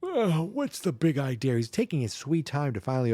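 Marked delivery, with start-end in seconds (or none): 0.0-1.6 higher put-on voice for an unbothered boy; imitated unhurried kid. Boy answering the screaming at his door, imitated unbothered kid voice. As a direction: mimic a kid taking his sweet time.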